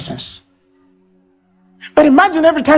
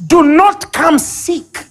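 voice of God; 6 semitones higher, much slower than usual. Acted. Quoting God forcefully, slowly.

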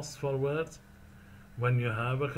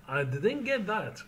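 higher, puzzled I didn't get that; confused; 5 semitones higher than usual. Shown as a demonstration. Teacher models saying you missed something, confused. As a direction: admit you missed it, sounding lost. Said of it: "Number four".

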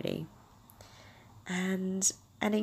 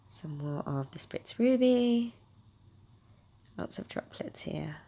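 whispered aside; slower than usual. Real, not acted. Quiet remark while spraying.

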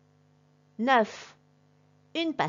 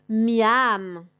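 yum reaction; 6 dB louder than usual. Shown as a demonstration. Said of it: "everyone will say, as a class".

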